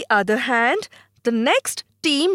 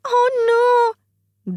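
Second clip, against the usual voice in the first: high, startled cry of dismay; a child gasping out oh no as the vase slips; 12 semitones higher, 3 dB louder than usual. Acted. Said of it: "he says".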